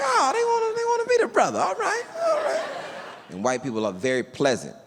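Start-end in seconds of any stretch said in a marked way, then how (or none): 0.0-2.6 high squeaky delight; very high giddy voice, happy to be welcomed; delighted falsetto. Retold or imitated. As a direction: flip way up into falsetto, thrilled.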